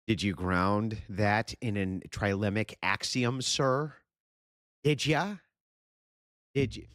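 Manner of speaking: sneering mock of a smug debater asking. Streamer mocking the opponent's debate style, high sneering.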